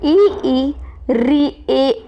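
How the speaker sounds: front vowels ई, री, ए, आई voiced one by one; teacher models front vowels ई and ए; vowel demo. Shown as a demonstration. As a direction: say ई, ए, आई separately as examples. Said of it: "ई, इसका बड़े ई लगा लेना".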